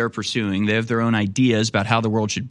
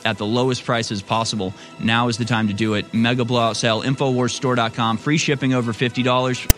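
pushy promo read over music; hard sell ad. Acted. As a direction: sell it like a pitchman. Host reads store promotion.

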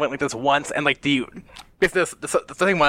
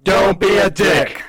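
loud, raised catchphrase; shouted slogan; 5 semitones higher, 6 dB louder than usual. Pretend. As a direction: call out the show's motto. Calling out the tip's slogan.

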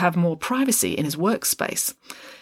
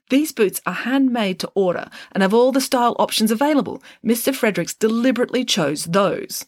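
higher, brisk explaining voice; clever girl detective; 6 semitones higher than usual. A narrator's reading. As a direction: lay out the clue like a sharp young sleuth. Friday explains the clue.

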